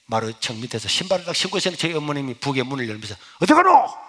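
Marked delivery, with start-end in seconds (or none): 3.4-3.9 high, loud demand; sharp call. Retold or imitated. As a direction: call after the sneaking son. Mother calling out. (몰래 나가는 아들을 부르는 어머니)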